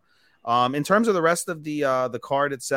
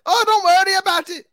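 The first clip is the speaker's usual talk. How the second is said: very high, loud hammed-up Scouser; high over-the-top Liverpool accent; mock Scouse accent; 8 dB louder than usual. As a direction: squeal it like a silly Liverpudlian. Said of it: "In British accents".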